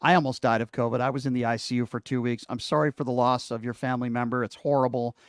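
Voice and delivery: gently sober and sorry; sincere condolence. Real, not acted. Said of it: "I'm very sorry for your loss".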